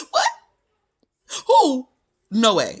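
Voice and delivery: put-on a stunned young patient yelling in shock; shocked cry. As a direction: cry out in total disbelief. Shock at the pregnancy news.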